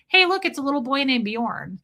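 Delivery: silly teasing. Retold or imitated. Joking to him about the childhood photo, silly. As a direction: retell a jokey greeting with a light silly lift. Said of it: "I was trying to be silly".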